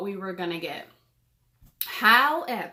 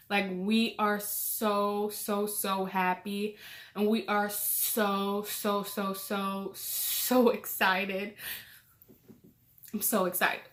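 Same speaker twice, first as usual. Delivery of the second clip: choked up with joy; 3 dB quieter, slower than usual. Real, not acted. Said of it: "sorry for getting emotional".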